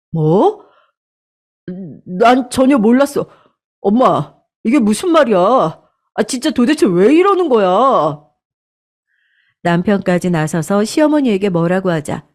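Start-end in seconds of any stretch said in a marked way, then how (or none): 0.1-8.2 higher, bewildered demanding questions; shocked husband. Acted. Husband questioning his mother, shocked and higher. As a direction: confront mom in disbelief.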